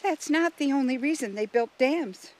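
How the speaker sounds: high, insistent little voice; interjecting crayfish. A narrator's reading. Marie the crayfish correcting Russell about dams, high interjection. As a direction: butt in with a high-pitched correction.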